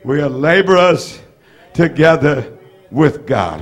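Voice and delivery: slow, paused line for the room to repeat; We are laborers ... together with God, paced out for the crowd to echo; slow call and response. Shown as a demonstration. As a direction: lead the congregation line by line. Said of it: "Say that with me".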